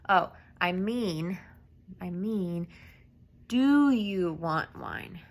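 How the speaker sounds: slow "do you want wine?", drawn out as a question. Shown as a demonstration. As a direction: ask it slowly, eyebrows up. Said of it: "have it as a question with the eyebrows up".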